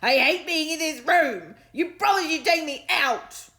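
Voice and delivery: high, loud, slow whiny dog voice; sulky talking dog. A narrator's reading. Dog complaining to Stanley about the drawer, whiny.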